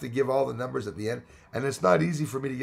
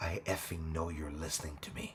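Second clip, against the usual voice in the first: very low, hushed, barely audible, unhinged psychotic menace; 8 semitones lower, 12 dB quieter than usual. Showing how to speak close to the camera: psychotic voice. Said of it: "in a psychotic voice".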